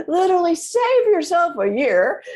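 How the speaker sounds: real laugh running through the words. Real, not acted. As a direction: laugh it out while giving advice. Laughing mid-advice to listener.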